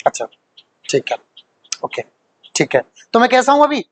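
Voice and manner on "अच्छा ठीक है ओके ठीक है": impassive, unruffled acknowledgements; stoic. Acted. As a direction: take bad news in stoically, word by word. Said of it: "stoic हूं". (संयमी, बिना घबराहट के)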